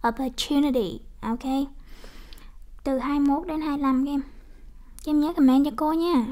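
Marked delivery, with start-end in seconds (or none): 0.1-1.0 "opportunity" with TU picked out, then falling; stress on third syllable. Shown as a demonstration. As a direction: lean on TU in "opportunity". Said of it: "như vậy là nhấn âm thứ".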